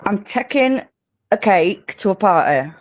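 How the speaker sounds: British accent, phrase set out in pieces; British accent demo. Shown as a demonstration. Host asks for "taking", British accent demo. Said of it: "say you're, you're, you're taking it".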